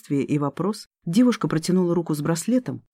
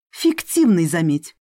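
hissing; 3 semitones higher, 3 dB louder than usual. Acted. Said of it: "прошипела Элина".

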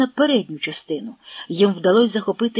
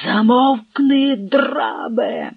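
angry command; 3 semitones higher, much slower than usual. Acted. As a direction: threaten before the shot. Hetman aims pistol at servant.

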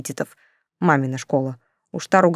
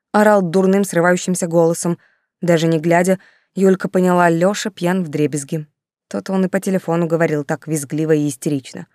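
plain reading voice

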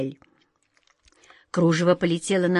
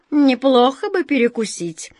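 hungry cat voice; 5 semitones higher, 4 dB louder than usual. Acted. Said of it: "сказал кот Васька".

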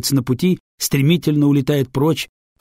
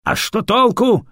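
grunting; 9 semitones higher, 4 dB louder than usual. Acted. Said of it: "хрюкает Сычин".

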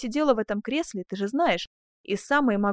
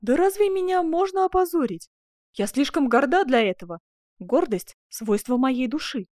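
high, loud, haughty outburst; lofty indignation, easing toward the end; proud exclamation; 5 semitones higher, 5 dB louder than usual. Acted. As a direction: ring out with offended pride. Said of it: "воскликнула герцогиня".

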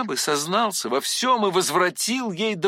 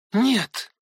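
sharp, higher cry of no, losing control; 6 semitones higher, 4 dB louder than usual. A narrator's reading. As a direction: blurt it out, unable to hold back. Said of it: "вскричал я".

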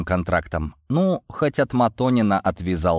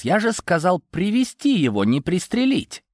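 higher-pitched, irritated reproach; snappish; 9 semitones higher than usual. A narrator's reading. Борис rebuking Йован over the shooting, snappish. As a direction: scold him for disobeying orders. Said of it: "окрысился Борис".

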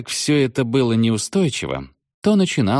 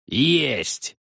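joyful exclamation; 6 semitones higher than usual. Acted. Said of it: "радостно воскликнул Тощий".

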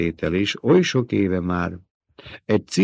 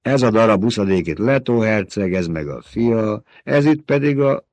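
bitter; 2 semitones higher than usual. Acted. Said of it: "keserű hangon".

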